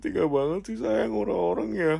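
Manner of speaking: high, plaintive wail of complaint; hammed-up hurt and dismay; mock sad. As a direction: whine in put-on heartbreak. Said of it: "Kok aku sedih banget sih".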